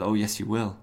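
lightly voiced threat, calm and even; a hint of a menacing hero. Spectre threatening the butler, lightly voiced menace. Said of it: "the Spectre says".

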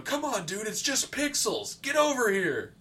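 high-pitched imitation of a friend calling; Mason. Dead friend's copied voice heard to the left, high coaxing call. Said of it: "I could hear Mason going".

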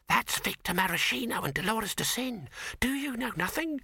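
high, scornful know-it-all voice; scoffing commoner. A narrator's reading. A commoner mocks his friend in a high scornful voice. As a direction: pitch it up and sneer at his ignorance.

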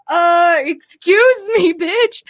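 high, slow, sassy excuse me; sassy retort. Retold or imitated. Naked in bed, sassing her mom. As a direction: drawl it with attitude.

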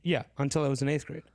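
"until" said cleanly, t sounded, for the listeners; nicer pronunciation. Shown as a demonstration. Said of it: "That was a nicer pronunciation".

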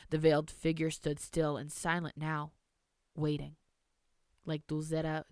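measured storybook reading; story narration. A narrator's reading. Reads story aloud.

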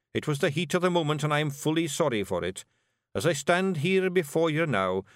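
mock-grave apology from Rob; solemn Scots apology. Rob to Daft Wullie, solemnly sorry. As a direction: make it earnest and formal.

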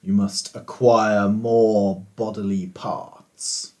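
lightly voiced slow genie; a hint of a grand genie, slow.

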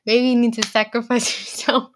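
laughing. Retold or imitated. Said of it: "I had said, like".

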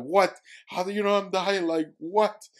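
high, loud burst of disbelief; reliving a stunned, loud reaction; amazed. Retold or imitated. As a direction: blurt it out, astonished. Amazed at dolphin, retold.

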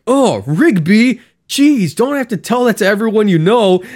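an embarrassed mumble to his buddy; embarrassed Mordecai. Retold or imitated. Retelling a cartoon, Mordecai is embarrassed and sheepish. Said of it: "And then Mordecai is like".

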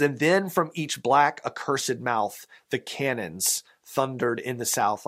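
measured, lilting poem reading; reciting a Christmas poem to the congregation; poem recital. Acted. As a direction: read the verse with a gentle swell.

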